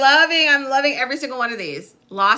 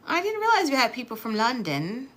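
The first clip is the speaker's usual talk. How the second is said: put-on London British accent; 5 dB quieter than usual. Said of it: "that's my best London British accent".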